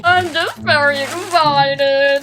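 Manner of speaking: high, slow squeak of excitement; high and squeaky. Real, not acted. Excited unboxer showing viewers a plush mushroom, high squeaky voice. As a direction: voice climbing up with delight. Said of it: "my voice going a little bit high and squeaky".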